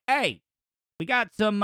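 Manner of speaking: put-on weak stab at a Philly accent; attempted Philadelphia accent. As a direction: try a Philadelphia accent and miss. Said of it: "can't even do a Philadelphia accent".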